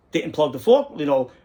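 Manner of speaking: ordinary talk, nothing marked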